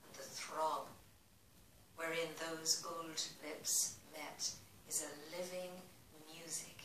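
measured love-poem recital; poem reading. Acted. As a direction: lift the opening of phrases, let the endings fall away. Reads a love poem aloud.

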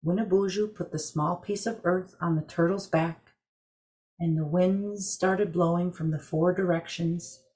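calm storyteller reading a legend; story narration. A narrator's reading. Story narration over music.

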